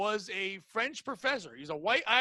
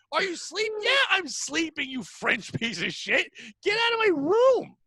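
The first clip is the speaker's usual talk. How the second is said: high angry shout at the intruder; shouting back; 8 semitones higher, 3 dB louder than usual. Acted. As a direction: yell him out of the room. Sleeper screams at the singer.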